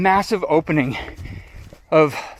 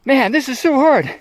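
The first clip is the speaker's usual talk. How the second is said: much higher, whiny mock complaint; worn-out regret; 9 semitones higher than usual. Friends stopping halfway down the moguls, whiny mock complaint. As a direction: imitate tired friends grumbling on the slope. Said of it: "kind of attitude".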